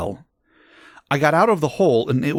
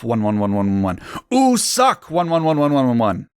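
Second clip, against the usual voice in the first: mock angry rant; 2 semitones higher than usual. Author telling off critics of the story, mock angry rant. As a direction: rattle off a petulant author's outburst.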